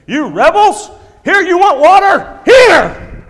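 a leader snapping at a rebellious crowd; furious shout. Acted. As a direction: Moses losing his temper and yelling at the people. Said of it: "And he snapped".

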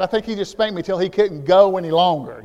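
normal talking voice

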